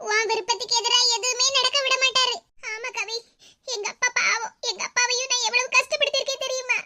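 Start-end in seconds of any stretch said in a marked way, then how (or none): 2.7-6.8 softly, on the edge of crying; a quiet, understated weepy confession; tearful. Acted. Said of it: "இப்படி அழுதுகிட்டே இருக்காத". (லேசான அழுகையுடன், மெதுவாக)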